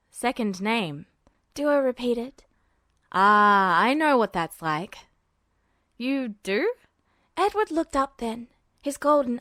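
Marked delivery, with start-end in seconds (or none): 0.1-1.1 put-on a low, weary boy's voice; tired and resigned, pitched low; Duo's voice. A narrator's reading. Duo voiced. 3.1-6.7 put-on a low, weary boy's voice; tired and resigned, pitched low; Duo's voice. A narrator's reading. Duo voiced.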